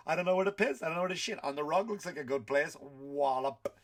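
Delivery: a giddy puppy who doesn't know the rules; clueless happy puppy. Pretend. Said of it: "a happy puppy".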